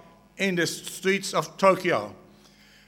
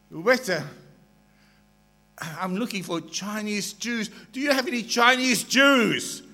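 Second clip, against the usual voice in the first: lightly acted Jewish accent, lifting on the question; 3 semitones higher than usual. Rabbi asking the waiter for Chinese Jews, light Jewish accent. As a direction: ask with a hint of Jewish accent. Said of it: "in his Jewish accent".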